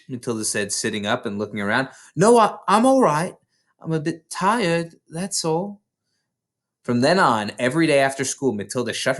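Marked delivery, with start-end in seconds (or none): 2.1-5.8 higher, lightly voiced girl; a child brushing off worry; young girl's voice. Matilda reassures her mother, higher girl voice.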